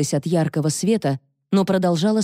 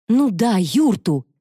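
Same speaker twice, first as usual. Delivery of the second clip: weary confirmation; 4 semitones higher, slower than usual. A narrator's reading. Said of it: "подтвердила она".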